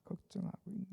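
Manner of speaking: normal talking voice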